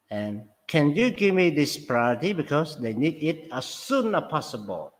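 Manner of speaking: "soon" lifted in "as soon as possible"; stress on soon. Shown as a demonstration. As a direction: lean on the word "soon". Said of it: "So soon is stress".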